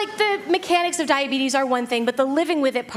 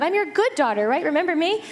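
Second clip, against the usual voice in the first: put-on "never" in a pitched-up, wide-eyed kid voice; mock innocent denial; 4 semitones higher than usual. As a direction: swear you'd "never", all innocence. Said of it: "I was like".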